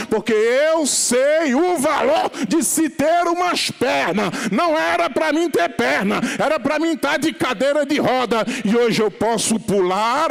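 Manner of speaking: loud, driving Pentecostal preacher; full-force preaching. Acted. Preacher urging the church that praise is for Jesus, full-force preaching. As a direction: belt it out in surging, sustained waves of fervor.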